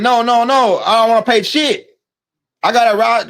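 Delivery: mock standing your ground in court; defiant refusal. Acted refusal to pay in court.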